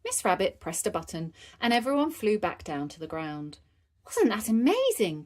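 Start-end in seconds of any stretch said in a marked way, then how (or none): 4.1-5.2 put-on higher-pitched delighted child; mildly raised thrilled voice; excited cry. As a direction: exclaim with lifted, eager wonder. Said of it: "cried Peppa".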